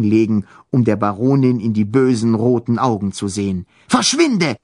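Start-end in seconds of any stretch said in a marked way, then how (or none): 3.9-4.6 shaky voice. A narrator's reading. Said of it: "rief er mit bebender Stimme".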